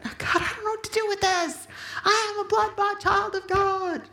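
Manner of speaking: a retold anguished prayer, high and pleading; desperate prayer. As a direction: cry it out as if into a pillow. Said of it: "I started screaming like that".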